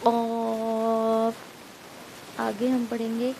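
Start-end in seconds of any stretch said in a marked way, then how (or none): 0.0-1.3 heavy throat qaaf; throaty qaaf. Shown as a demonstration. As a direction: push قاف from the throat, slowly. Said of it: "حلق سے نکالیں گے".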